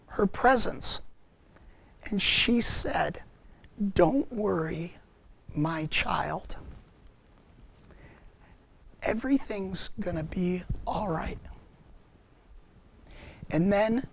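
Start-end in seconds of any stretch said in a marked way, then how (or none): 3.9-11.4 tender. Retold or imitated. Mary comforting the grieving man, soft tender reassurance. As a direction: comfort him like a child. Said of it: "in the most tender voice".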